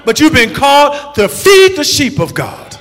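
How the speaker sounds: climbing into a full preaching shout; rising preaching cry. Real, not acted. Preacher to pastors, rising to a shout. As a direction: build the call until you shout it.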